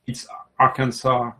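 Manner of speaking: "Arkansas" with an open final "-sa", no S; French-origin pronunciation. Shown as a demonstration. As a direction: end "Arkansas" on a long A, silent S. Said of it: "the French origin thing".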